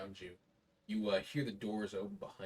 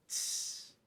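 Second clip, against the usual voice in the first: sizzling hiss. Shown as a demonstration. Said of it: "sound to it".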